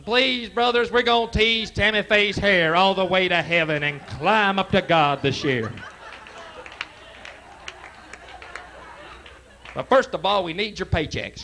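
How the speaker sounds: high pleading televangelist. Retold or imitated. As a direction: beg the flock like a TV preacher. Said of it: "Always crying about something".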